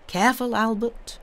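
playful warning to a friend; teasing Albert's fear of bandits; cried warning. A narrator's reading. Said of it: "cried Franz".

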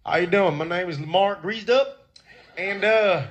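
a hint of a simple country boy; country accent. Game show dealer playing a country boy, lightly Southern. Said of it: "my country guy".

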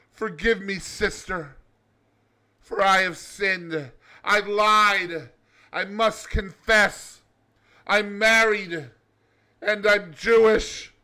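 hammed-up tearful confession to the nun; mock crying. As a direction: confess like you're half crying. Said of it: "the cab driver starts crying".

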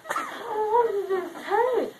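slow, crying question; tearful. Real, not acted. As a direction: sob it out, dazed.

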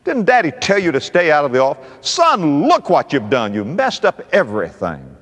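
acted dismay of a cross dad; scolding father. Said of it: "The father threw his pen down".

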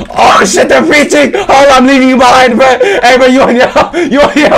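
high, loud frantic yelling; panicked shouting. Real, not acted. Gamer fleeing pursuers and ditching a teammate, panicked shouting. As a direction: yell in a panic, voice shooting up.

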